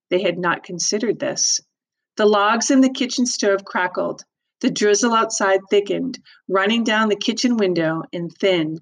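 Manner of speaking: expressive read-aloud narration; story narration. A narrator's reading. Teacher reads novel aloud.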